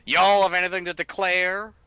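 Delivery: mock Southern customs officer accent. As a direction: ask it like a Southern border guard. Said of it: "and they'd say".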